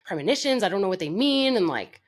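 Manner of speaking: telling God off, frustrated; pissed-off rant. Retold or imitated. Talking back to God, retold irritation. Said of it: "'Cause I'm pissed".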